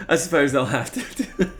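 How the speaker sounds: a hint of a haughty aristocrat; mock posh. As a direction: sniff it out like a snob, through a laugh. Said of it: "obsession with talking like a pirate".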